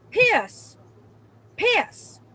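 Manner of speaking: rising high in disbelief; shocked disbelief. Real, not acted. Seeing piss on the stall door, high and incredulous.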